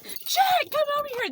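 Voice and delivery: high, loud call across the choir room; hammed-up high shout of a name. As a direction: yell it to friends sections away. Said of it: "They're yelling from their other sections".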